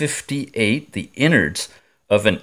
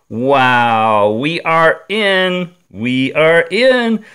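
excited; 5 semitones higher, 5 dB louder, much slower than usual. Real, not acted. Watch case finally opened.

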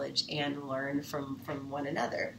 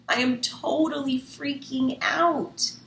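freaking out; 9 semitones higher, 4 dB louder than usual. Acted. Kat panicking over orders.

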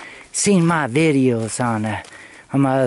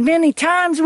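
surprised echo; 13 semitones higher than usual. Retold or imitated. Incredulous echo of friend.

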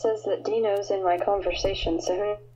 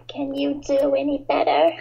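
1 imitation; 6 semitones higher, 4 dB louder than usual. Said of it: "What was that voice?".

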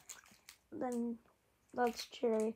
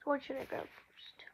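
whispering; 2 semitones higher, 4 dB quieter than usual. Real, not acted. Whispers question to camera.

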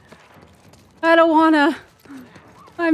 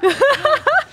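high, half-crying panicked laugh; laugh-cry through the fear; a frightened whimpering giggle; scared laughter; 6 semitones higher than usual. Real, not acted. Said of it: "I'm scared".

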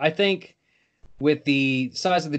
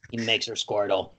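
thick Boston accent on Squirtle; 8 semitones lower, 3 dB quieter than usual. Real, not acted. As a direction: say it like a bad Boston local. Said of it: "worst Boston accent when you say".

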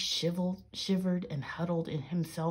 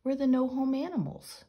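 high, loud chant-like cry; crying out in chorus; 9 semitones higher, 6 dB louder than usual. A narrator's reading. The homeless animals answer Peter, crying out. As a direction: cry it out as a group, pitched up. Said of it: "the animals cried in chorus".

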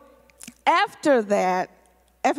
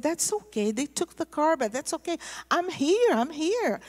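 retold reassurance; 5 semitones higher than usual. Reassuring crying church members, retold.

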